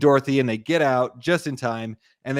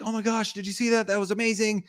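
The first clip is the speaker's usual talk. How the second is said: imitating two thrilled storm chasers, much higher; mock excited; 9 semitones higher, 3 dB quieter, faster than usual. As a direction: put on an awestruck squeal of a voice. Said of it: "they're, like, so excited".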